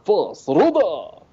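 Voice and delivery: dragon shout. Pretend.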